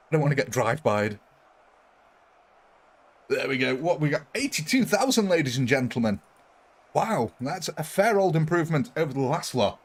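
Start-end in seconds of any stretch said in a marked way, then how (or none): 4.3-6.2 announcer flourish. Acted. Announcing the kill count.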